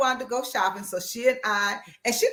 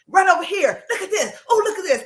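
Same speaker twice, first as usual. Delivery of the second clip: high, laughing excitement over clothes; excited squeal; 7 semitones higher, 4 dB louder, faster than usual. Retold or imitated. Friend in boutique calling Gloria over, excited and laughing. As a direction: squeal with delight and giggle through it.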